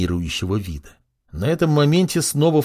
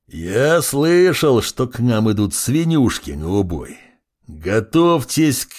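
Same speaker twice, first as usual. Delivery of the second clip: haughty demon voice. Acted. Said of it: "такого надменного говора".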